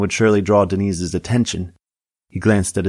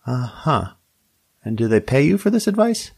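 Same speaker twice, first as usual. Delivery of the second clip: Tammy voice; 6 semitones higher than usual. A narrator's reading.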